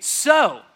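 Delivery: measured, weighty words; slow emphatic declaration. Retold or imitated. Jesus pressing his claim on the Pharisees, slow and weighty. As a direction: lean in and land each phrase. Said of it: "he leans in just a little bit more".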